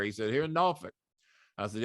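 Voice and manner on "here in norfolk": lightly voiced Southern general, higher pitch; a hint of Southern general. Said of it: "he talked like a Southern general".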